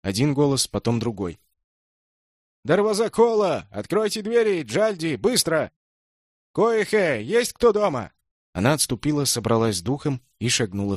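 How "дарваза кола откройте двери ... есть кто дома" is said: bang out the demand from behind a door; shouting through the door. A narrator's reading. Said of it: "За дверью кричали на хинди".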